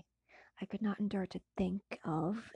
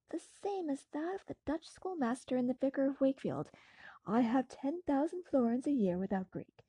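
a touch higher, brighter friend chatting; lightly voiced cheerful friend; 3 semitones higher, 4 dB louder than usual. Clerval telling Frankenstein of his father, lightly voiced. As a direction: speak as an eager young friend.

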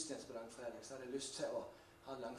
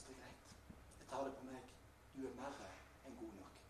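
soft, understated acceptance; gentle reassurance; 8 dB quieter than usual. Acted. Preacher voices Jesus accepting the sinner, soft gentle reassurance. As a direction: let it drop soft and kindly.

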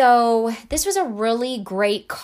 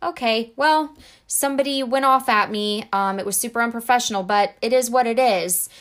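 resigned shrug; 3 dB louder than usual. Retold or imitated.

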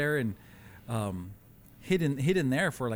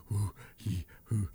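imitated breathing; 5 semitones lower than usual. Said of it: "he's breathing".

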